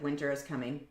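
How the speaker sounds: mock-dramatic "Winter is coming"; ominous warning. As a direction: intone it like a grim prophecy. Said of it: "I'm just like".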